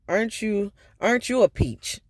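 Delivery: retold sarcastic jab. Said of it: "that's white people sarcasm".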